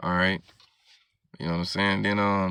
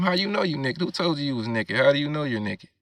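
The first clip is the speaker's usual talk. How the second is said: incredulous prophet; 4 semitones higher than usual. Retold or imitated. Prophet's question retold casually.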